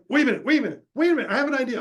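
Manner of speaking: high eager interruption; sudden idea. Retold or imitated. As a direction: stop everyone, idea just struck. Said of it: "I'm like".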